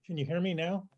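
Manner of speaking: lost voice, straining to speak; hoarse voice. Real, not acted. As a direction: push words through a worn-out voice. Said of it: "I lost my voice".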